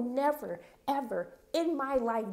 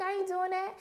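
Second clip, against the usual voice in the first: mock Uncle Daddy refusal; 8 semitones higher than usual. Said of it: "he was like".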